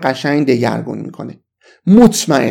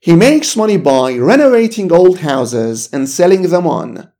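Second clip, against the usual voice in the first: slow review reading; 2 semitones higher, much slower than usual. Shown as a demonstration. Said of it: "یه بار دیگه با هم مثال مرور کنیم".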